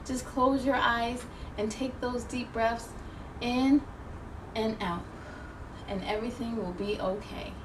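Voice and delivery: calm them down gently; soothing guidance. Real, not acted. Host guiding children to breathe, soft and soothing.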